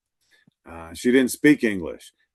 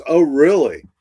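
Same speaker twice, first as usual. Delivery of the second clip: surprised; 4 semitones higher, 7 dB louder than usual. Retold or imitated. Parole officer hears the news.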